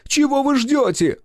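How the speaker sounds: very high, loud, slow roar. A narrator's reading. Director roaring at the cameraman, furious high roar. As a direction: roar the order in fury.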